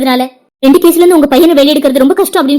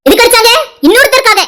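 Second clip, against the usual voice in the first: angry, raised voice; 3 semitones higher than usual. Acted. Woman confronting brother-in-law over her slapped sister, indignant. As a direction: throw the accusation back at him. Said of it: "நீ கத்தி பேசுறதுனால".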